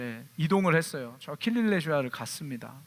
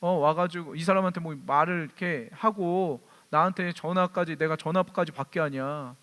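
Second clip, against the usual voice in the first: imitating yelling policeman. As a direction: retell the cop's tirade, rising in pitch. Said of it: "막 소리를 지르는 거예요". (소리 지르는 경찰 흉내)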